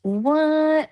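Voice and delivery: high, incredulous "what"; surprised. Real, not acted. Host learns the guest already covered her list, startled. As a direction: blurt it out in disbelief. Reacting to his news.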